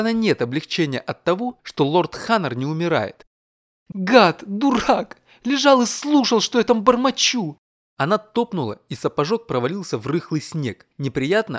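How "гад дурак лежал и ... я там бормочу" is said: high, loud fuming outburst; angry rant. Acted. Yulia fuming to herself about her eavesdropping husband, high and loud. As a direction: rage at him under the frosty sky. Yulia raging alone outside.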